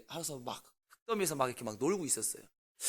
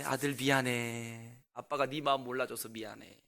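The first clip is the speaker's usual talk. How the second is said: tender apology; 5 semitones lower, 3 dB quieter than usual. Retold or imitated. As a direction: gently say sorry to a child. Father apologizes to his son.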